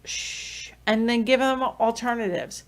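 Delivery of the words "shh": unvoiced hushing; soft shush. Shown as a demonstration. Parent hushing a crying child at a restaurant. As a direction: quietly hush the child. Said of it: "it could be a shush".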